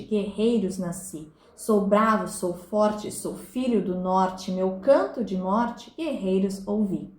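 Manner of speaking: slow, measured verse reading; declaimed poem with falling line ends; poem recitation. Acted. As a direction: recite it line by line in steady meter.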